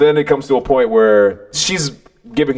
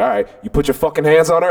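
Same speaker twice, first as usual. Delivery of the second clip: retold fierce challenge, slightly higher; fierce confrontation; 4 semitones higher than usual. Walking at the boy who hit his sister, mildly fierce. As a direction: advance on him with a touch of menace. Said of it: "like, this fierce, like".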